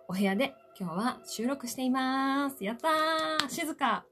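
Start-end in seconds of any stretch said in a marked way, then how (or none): 2.6-4.1 excited. Real, not acted. Cheering over a quiet room.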